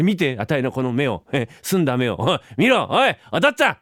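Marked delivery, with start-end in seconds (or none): 2.2-3.8 high, louder call to dad; child yelling for his father; kid calling out. Acted. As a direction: tug at father's attention, calling.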